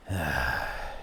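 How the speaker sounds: low soft weary sigh; deep tired sigh; old man's sigh. A narrator's reading. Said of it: "He sighs".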